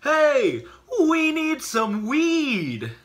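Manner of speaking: loud high yell with a laugh; screaming out. Retold or imitated. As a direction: yell it across the road. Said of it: "my cousin decided to scream out".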